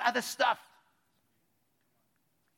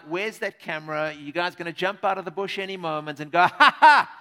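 acted suspicious woman; 4 semitones lower, 8 dB louder than usual. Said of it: "It's kinda like".

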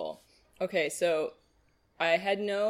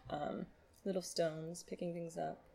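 chewing boba; 11 dB quieter than usual. Real, not acted. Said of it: "the sound of my boba chewing".

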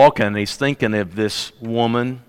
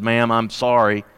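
moved sympathy. Acted. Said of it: "he was moved by this woman".

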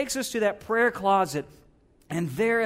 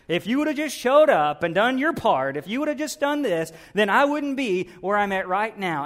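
angry accusation; 3 semitones higher, 6 dB louder than usual. Acted. Bitter believer blaming God for his troubles, angrily accusing.

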